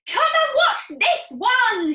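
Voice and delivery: high, loud call across the yard; father shouting to his wife to come watch. Acted. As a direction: call your wife over, thrilled. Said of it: "he shouted to Missus Cranky".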